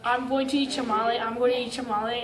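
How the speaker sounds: quiet, fast murmured repeat; mild sleep talking. Retold or imitated. Jaguar lord muttering in his sleep, quiet and fast. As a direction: mumble it under your breath, half asleep. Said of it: "sleep talking".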